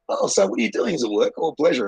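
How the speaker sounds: high, chirpy put-on inquiring voice; mock nosy local. Friend retelling how locals grilled him, mocking their high nosy questions. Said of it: "they're like".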